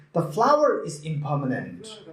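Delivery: flower carries the weight, impermanent falls away; stress on flower. Shown as a demonstration. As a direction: put the main emphasis on flower. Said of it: "Okay, on the flower?".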